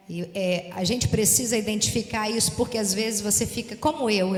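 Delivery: ordinary talk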